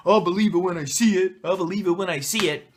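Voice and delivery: put-on Brooklyn guy accent, poking fun; mock Brooklyn accent. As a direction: mimic a doubter in a Brooklyn accent. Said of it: "say it with that accent".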